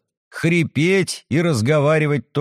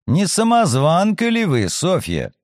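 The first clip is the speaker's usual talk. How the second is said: mocking; 3 semitones higher than usual. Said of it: "От моего издевательского тона".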